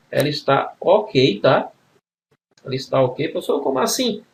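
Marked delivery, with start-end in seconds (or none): 3.3-4.2 higher-pitched interjection as a student; lightly voiced questioning pupil, pitched up; student's puzzled question. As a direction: lightly mimic a pupil querying the teacher.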